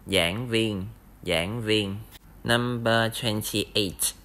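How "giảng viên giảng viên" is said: "giảng viên" said clearly with a falling end; Vietnamese giảng viên. Shown as a demonstration. Teacher modelling the word for lecturer. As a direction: repeat "giảng viên" for learners to copy.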